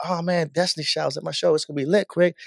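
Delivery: mildly hyped, retold excitement; excited. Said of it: "Mo's so excited".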